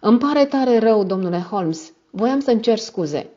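out of breath. A narrator's reading. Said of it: "Venea abia trăgându sufletul".

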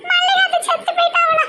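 very high, helpless giggling; grinning laughter. Acted. Daughter hearing from mother of aunt's death, laughing. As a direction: squeal the question through laughter. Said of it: "பல்ல பல்ல காட்டுதால".

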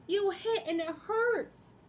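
loud, high scolding lamb; loud Lambkin. Acted. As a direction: tell him off firmly.

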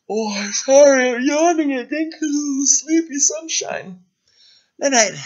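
high, drowsy little character apologizing for yawning; a sleepy sun saying goodnight, voiced high. Sleepy puppet-like character yawns.

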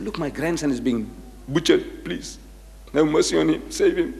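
soft, pleading appeal to God; pleading prayer. Retold or imitated. Praying to Allah for his grandson, soft pleading. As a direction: beg quietly for the grandson's life.

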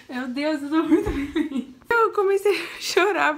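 words spilling through laughter; real laughter through happy words; laughing with joy. Real, not acted. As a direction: laugh while saying it, delighted.

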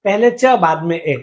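"पहले च, बाद में ए" with each sound isolated; syllable sounded out. Shown as a demonstration. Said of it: "बोलो, आप बोल के देखो".

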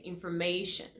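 information with sh ending, English style. Shown as a demonstration. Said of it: "you're gonna say".

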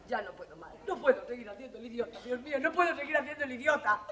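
soft, broken confession; breaking down. Acted. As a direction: let the voice crack and sink. Breaking down, tearful.

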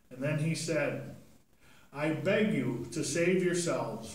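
put-on clear, bright reading to children; scripture reading. Priest reading Acts to the children, storytelling style. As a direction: read the lesson out to the kids.

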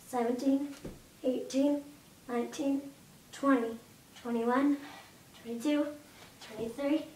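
counting reps mid push-up; doing push ups. Real, not acted. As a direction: count each rep while pushing up. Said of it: "count how many I'm gonna do ... while I do it".

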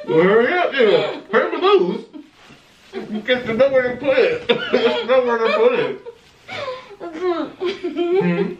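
high, loud laughing taunt. Real, not acted. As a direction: cackle out the teasing words. Taunting, laughing, much higher.

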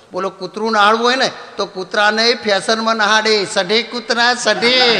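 hint of a fancy village lady; posh lady imitation. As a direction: mimic a showy lady talking to her dog. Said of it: "એ બેન બહુ ફેશનમાં બોલે".

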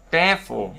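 CARE-ful, stressed on CARE; weight on CARE in Careful, drop -ful; first-syllable stress. Shown as a demonstration. Teacher giving an adjective example, stress on CARE in Careful. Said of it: "âm tiết thứ nhất".

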